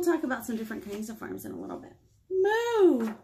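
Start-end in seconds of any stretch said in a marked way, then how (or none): 2.3-3.1 mooing cow. Pretend. Reading a wordless cow book.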